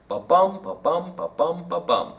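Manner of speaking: even "ba-bum" four times, weight on each bum; iambic beat. Shown as a demonstration. Teacher counting the iambs for learners, chanted "ba-bum" stressed on "bum". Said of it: "How many are in there?".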